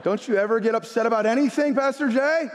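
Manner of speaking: high, incredulous coach's question; exasperated. Retold or imitated. Frustrated coach to unruffled fellow pastor, exasperated. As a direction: pitch it up in mild exasperation.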